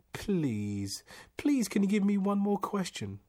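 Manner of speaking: high-pitched, loud begging; desperate. A narrator's reading. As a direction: beg for one last chance. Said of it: "he cried desperately".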